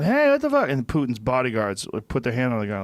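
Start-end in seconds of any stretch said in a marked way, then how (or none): 0.0-0.7 high, loud outraged yell; angry shout. Retold or imitated. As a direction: shout it in protest. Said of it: "the guy starts going".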